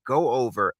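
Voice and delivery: ordinary delivery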